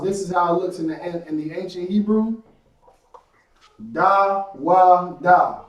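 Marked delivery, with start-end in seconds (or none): 3.9-5.6 "Da, Wa, Da" as three separate syllables, louder; syllables apart. Shown as a demonstration. Teacher sounding out his name for the class, separate syllables. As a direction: sound out "Da, Wa, Da" one by one. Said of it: "from right to left".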